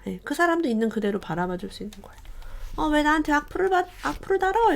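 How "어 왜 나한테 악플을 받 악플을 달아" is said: higher, indignant put-on voice; mock angry retort. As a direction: act out an offended blogger snapping back at a troll. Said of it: "이러고 화를 내는 게". (흉내 내는 화난 목소리)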